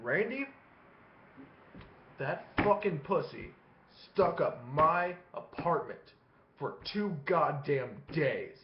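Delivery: slow, weighty delivery with long pauses; dead serious. Retold or imitated. Dad confiding in his son Randy, dead serious. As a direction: lay it out slowly, phrase by phrase. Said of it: "He's fucking serious".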